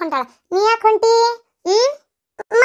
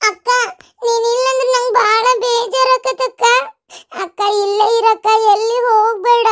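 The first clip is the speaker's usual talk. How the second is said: sad pleading; 2 semitones higher than usual. Acted. Sibling pleads with departing sister.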